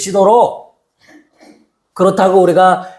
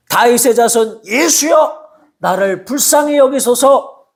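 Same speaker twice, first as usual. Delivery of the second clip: pleading cry; 3 semitones higher than usual. Retold or imitated. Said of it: "이렇게 고백했습니다".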